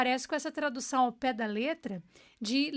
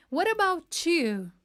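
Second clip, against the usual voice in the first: slow model phrase; 4 semitones higher, 4 dB louder, slower than usual. Shown as a demonstration. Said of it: "É como se fosse uma tradução".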